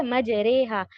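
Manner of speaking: مجریہا as "maj-ray-haa", with a long "ay"; imala reading. Shown as a demonstration. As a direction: tilt the middle vowel of مجریہا to "ay". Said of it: "ان دونوں کے درمیان کا sound ہے اے".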